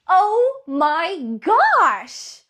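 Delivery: drawn-out, high and loud; excited gasp. Real, not acted. Coach thrilled by the idea, slow loud delight. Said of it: "speaker gushing".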